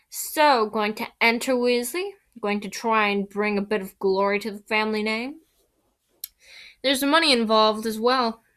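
lightly voiced taunting schoolboy; taunting Malfoy voice. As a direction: needle him with mock interest.

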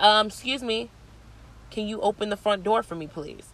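mock a rude woman's stiff politeness; snobby, rude. Rude woman asks her to open the door, snobbily. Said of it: "you were so snobby and rude".

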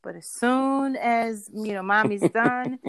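mild sing-song mommy voice; anxious mom reassuring. Retold or imitated. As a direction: check on a little preschooler, gently upbeat. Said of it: "I'm like".

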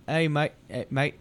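tentative English accent, slipping toward Australian; botched English accent; attempted English accent. Shown as a demonstration. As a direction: have a hesitant go at an English "mate". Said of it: "What's an English accent sound like".

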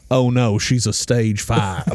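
a hint of a Texas comic's drawl; cowboy voice. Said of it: "My cowboy voice sounds a little too much like Ron White".

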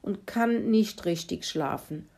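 high, drawn-out tired complaint; plaintive excuse, starting loud and dropping away; ashamed pig. Acted. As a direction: stretch it out like a worn-out, sheepish pig. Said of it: "schaute beschämt auf den Boden und sagte".

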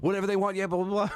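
excited high, eager yes; starstruck eagerness. Retold or imitated. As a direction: play the thrilled manager. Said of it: "he was like".

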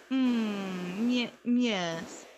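drawn-out, dubious alien yes; mock evasive hum and yes; hesitant agreement. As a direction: hedge it, stretching each yes.

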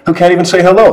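a touch of mock praise for a foreigner; mock Estonian local. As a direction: lightly mimic a condescending Estonian. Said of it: "most common phrase ever said".

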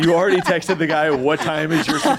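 teasing through laughter; amused, laughing tease. Real, not acted. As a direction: crack up while saying it. Teasing her, cracking up.

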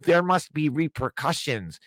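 mildly mocking liberal voice. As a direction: lightly parody a fretful liberal. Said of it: "oh, the liberals".

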